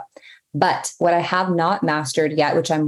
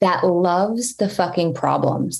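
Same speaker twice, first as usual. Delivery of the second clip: mock dramatic; slower than usual. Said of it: "like, so dramatic".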